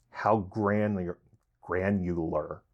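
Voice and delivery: cotton in mouth; words slurred by cotton in mouth; mouth full. Real, not acted. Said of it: "got cotton in my mouth".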